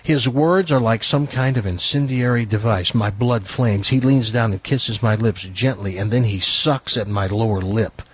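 low, measured story narration; novel read-aloud. A narrator's reading. Host reading a racy novel to co-hosts, measured narration. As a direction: read the steamy passage out evenly.

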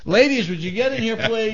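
high, sustained call; high sing-out to summon someone; mock summons. Host calls the women in.

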